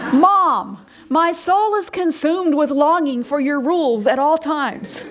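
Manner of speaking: lightly voiced teen, a laugh breaking through; playful imitation of a kid talking to Mom; mock teenager. Imagining a teenager telling Mom, lightly mocking, laughing. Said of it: "can you imagine one of your teenagers saying that to you".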